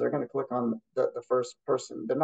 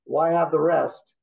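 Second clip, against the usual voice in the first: sarcastic boast; slower than usual. Retold or imitated. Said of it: "being very sarcastic".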